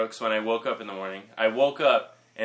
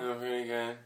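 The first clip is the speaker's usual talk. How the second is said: soft, weird mumbled answer; deliberate mumble; 6 dB quieter than usual. Pretend. Guest winding up the host, soft mumbling. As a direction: keep mumbling despite complaints. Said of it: "Just talk normally".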